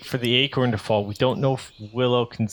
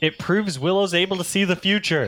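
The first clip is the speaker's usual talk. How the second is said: high-pitched, loud yelling; 7 semitones higher than usual. Voicing a character who yells down from a tree: yelling down from a tree. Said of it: "Rocky just yells down from the tree".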